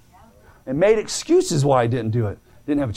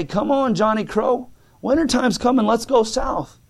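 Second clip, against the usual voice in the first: higher-pitched call to a friend, lightly acted; a hint of crow, pitched up; 6 semitones higher than usual. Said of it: "the crows would fly over and caw".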